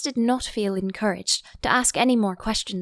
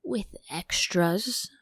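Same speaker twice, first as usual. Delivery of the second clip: anxious; much slower than usual. Acted. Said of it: "a little anxiously".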